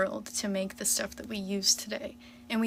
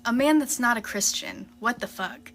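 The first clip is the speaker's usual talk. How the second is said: pointed, louder answer; firm, louder comeback; louder retort; 3 semitones higher, 5 dB louder than usual. Real, not acted. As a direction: snap the answer back. Answering the comment she reads.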